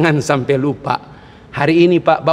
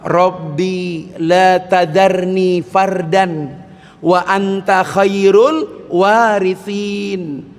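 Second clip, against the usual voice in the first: very slow, measured recitation; Quranic recitation; much slower than usual. Shown as a demonstration. Preacher reciting Zakaria's prayer, very slow. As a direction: recite each word slowly.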